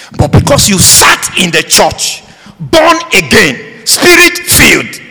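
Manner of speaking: stern warning building to high, punched phrases; forceful preaching. Real, not acted. Preacher warns churchgoers who sat idle, forceful and building. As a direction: hammer each phrase home to the congregation.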